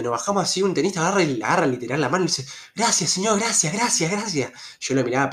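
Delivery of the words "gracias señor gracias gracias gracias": higher-pitched imitation of near-crying gratitude; mock tearful thanks. Tennis player thanking the driver who let them off, mock tearful. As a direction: gush thanks like someone about to cry. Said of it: "Llorando se lo decía".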